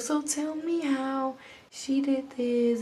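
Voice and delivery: slow, softened motherly question; gentle mama. Retold or imitated. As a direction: imitate a gentle mother, taking it slowly. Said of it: "She's, like, so gentle".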